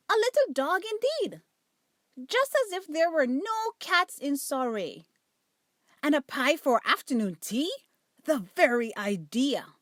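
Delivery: put-on an offended old cat scoffing at a dog at a tea party; disdainful. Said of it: "Cousin Tabitha was disdainful".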